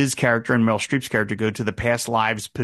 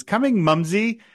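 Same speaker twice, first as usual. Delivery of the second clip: put-on high-pitched dainty little-girl voice; put-on girlish singsong, pitched way up; fancy little girl; 10 semitones higher, 4 dB louder than usual. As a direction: answer mother like a prim little girl. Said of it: "the little girl says".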